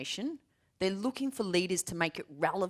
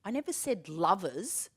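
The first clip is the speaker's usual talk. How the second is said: put-on slow kid explaining; 2 semitones higher, slower than usual. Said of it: "she said".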